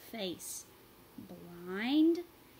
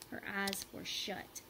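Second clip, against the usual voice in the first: slow, soft unvoiced whisper; 8 dB quieter, slower than usual. A narrator's reading. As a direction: hush it for suspense. Suspenseful narration.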